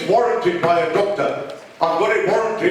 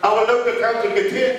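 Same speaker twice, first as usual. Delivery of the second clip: raised and higher, demanding answers; calling out over the crowd; 4 semitones higher than usual. Real, not acted. Resident calling across the meeting hall, raised and higher. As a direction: shout over the hall to be heard.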